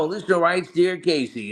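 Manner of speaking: high radio host voice reading a letter; Casey Kasem impression. Voice actor showing producers his DJ impression, high and smooth. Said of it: "So I started doing my Casey Kasem".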